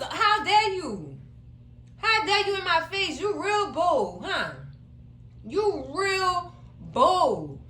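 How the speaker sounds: a hint of an offended girlfriend, dragged out; mock outrage. Voicing Glow's outrage.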